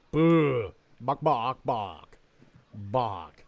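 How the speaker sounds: mock chicken bok-boks; chicken clucking. Recalling the chicken man at the parade, chicken clucking.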